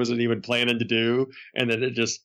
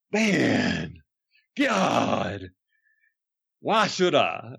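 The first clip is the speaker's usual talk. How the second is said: mock outrage at the request; exasperated Brian; much slower than usual. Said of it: "such an outrageous request".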